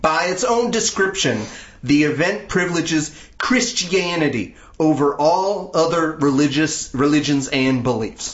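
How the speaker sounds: put-on Southern speechifying; Southern accent. Shown as a demonstration. Host finishes atheist group's statement to co-hosts, Southern accent. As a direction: stretch the key words in a Southern accent. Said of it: "statement in a Southern accent".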